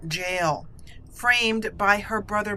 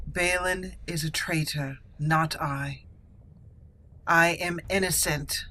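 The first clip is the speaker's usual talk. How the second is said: defiant accused noble; 3 semitones lower than usual. Acted. Condemned noble to Lord Harrowmont, defiant. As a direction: stand tall before the judges, innocent. Defends herself at sentencing.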